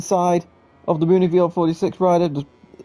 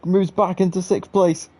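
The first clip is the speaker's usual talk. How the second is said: excited live play-by-play, pitched up; motorsport commentator; 4 semitones higher than usual. Real, not acted. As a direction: call the last-lap battle with rising urgency. Live race finish, rising pitch.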